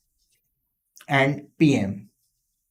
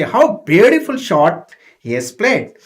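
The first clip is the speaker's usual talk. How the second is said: louder, astonished praise of the shot; astonished crowd; 3 semitones higher, 4 dB louder than usual. Shown as a demonstration. Crowd astonished at the batsman's shot, loud praise. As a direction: marvel at the unexpected stroke. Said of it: "they were astonished, they were surprised".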